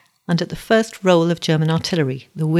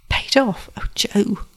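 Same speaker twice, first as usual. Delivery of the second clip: high questioning PAID OFF, sinking into concern; acted dismay, pitched up on "Paid off?"; dismayed echo; 5 semitones higher, slower than usual. Susie echoes his news in dismay.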